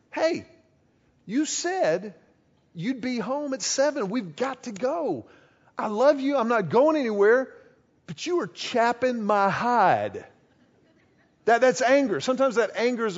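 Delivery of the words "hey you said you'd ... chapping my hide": mock scolding.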